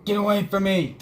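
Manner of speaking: loud startled fright; terrified horror victim. Real, not acted. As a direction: yell in fright at the monster. Elmo monster appears.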